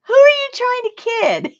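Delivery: laughing while imitating the boy's complaint; laughing kid quote. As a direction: laugh your way through the boy's indignant line. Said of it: "he goes".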